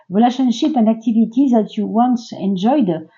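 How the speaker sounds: reading English with a strong French accent; English words in plain French-accented sounds. Real, not acted. Tarot reader reads an English card text aloud, French accent. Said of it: "pardon pour mon accent un petit peu bizarre".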